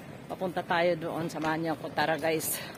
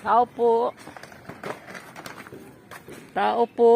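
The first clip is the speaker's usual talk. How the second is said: loud, raised door call; 6 semitones higher, 12 dB louder, much slower than usual. Real, not acted. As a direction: call out for someone inside, building louder. Calling at client's door.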